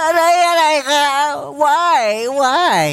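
high, loud, far-off yelps of surprise; hammed-up hurt child crying why; mock startled child. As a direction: yelp like a kid smacked out of nowhere. Startled child yelps after being hit.

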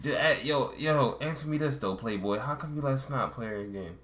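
mock Baltimore street questioning, starting high; retry it as loose Baltimore street talk; lightly imitated Baltimore accent, easing down. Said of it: "a Baltimore accent".

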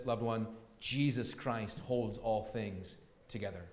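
gently reassure, voice brought down; pastoral reassurance. Real, not acted. Pastor comforting an anxious heart in the congregation, tender reassurance.

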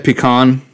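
"pecan" said puh-KAHN. Shown as a demonstration. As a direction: stress the second syllable of "pecan". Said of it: "I know that that's correct".

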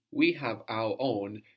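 teacher stressing the word we for students. Shown as a demonstration. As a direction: lean on we, then carry on. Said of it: "we emphasize the word for we".

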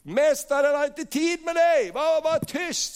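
high-pitched, urgent hushing; scolding crowd. Acted. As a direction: shush him as an annoyed crowd. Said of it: "alla sa till honom". (hög, tillrättavisande röst)

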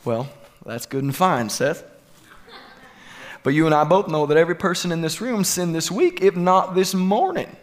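put-on Southern accent of a skeptical churchgoer; Bill Clinton. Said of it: "has a southern accent or sounds like Bill Clinton".

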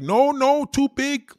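high, loud squealing protest; comic impression of a woman refusing; mock Latin woman. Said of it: "Latin women gonna be like".

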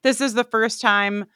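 talking with a retainer in. Real, not acted. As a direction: speak around a dental retainer. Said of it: "which I'm wearing right now".

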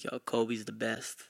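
slow, soft laid-back coworker voice; lightly voiced smooth coworker, slow; smooth slow Dwayne. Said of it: "He's like".

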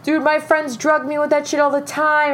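high, put-on guy voice; imitating amused date. Date laughs off the confession, high amused imitation. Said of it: "he starts cracking up".

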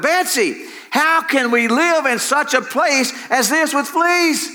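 high, drawn-out wail of despair. A narrator's reading. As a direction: wail slowly in a high, put-on voice. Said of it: "Corrie wailed".

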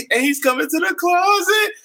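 high, hammed-up dramatic sung narration; mock-intense storytelling in a high voice; R. Kelly imitation. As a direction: play it like an overwrought soap-opera singer. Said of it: "he's like".

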